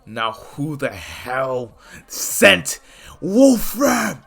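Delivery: menacing demand. Acted. Hero threatens the guards.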